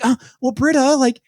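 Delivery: high, caring, earnest plea; Annie's compassionate voice. Retold or imitated. Podcaster mimics a student confiding in her friend, high caring voice. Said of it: "caring, compassionate voice".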